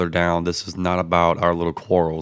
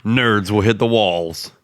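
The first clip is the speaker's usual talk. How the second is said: movie trailer voice; 2 semitones higher, 4 dB louder, slower than usual. Acted. Trailer voice continues.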